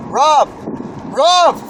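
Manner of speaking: retold desperate shout; retold scream. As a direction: call the name out high and loud. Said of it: "So I was screaming".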